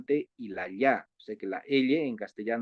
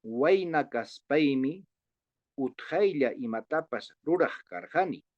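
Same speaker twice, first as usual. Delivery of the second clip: read-along model; 3 semitones higher than usual. Shown as a demonstration. Teacher asks colleagues to read along with him, read-along model. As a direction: lead the class through the Quechua sentence. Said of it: "lean conmigo".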